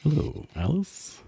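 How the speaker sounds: eerie high-pitched hello; high robot greeting. Acted. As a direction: chirp the greeting.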